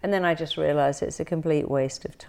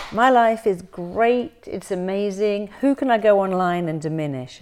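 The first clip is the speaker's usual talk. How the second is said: mock cheerful troll; 4 semitones higher, 5 dB louder than usual. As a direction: ham up a smug troll. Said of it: "who would ever wake up and go".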